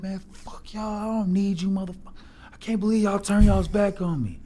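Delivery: high, hammed-up betrayal yell; acting betrayed by the team; mock rooftop rant. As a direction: player fakes a rant from the roof. Fake tantrum from the rooftop.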